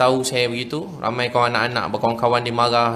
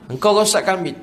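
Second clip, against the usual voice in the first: retold accusing father; 5 semitones higher than usual. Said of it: "Pening kepala bapak saya".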